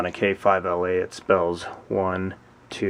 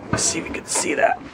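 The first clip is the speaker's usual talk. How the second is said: whispering; faster than usual. Real, not acted. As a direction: whisper it to yourself. Whispering while filming.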